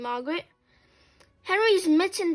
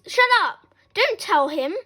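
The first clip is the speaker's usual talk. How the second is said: high, loud cut-in; urgent yell, easing after the first words; shouted; 5 semitones higher, 5 dB louder than usual. A narrator's reading. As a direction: silence someone with an acted shout. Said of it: "shouted Moody Margaret".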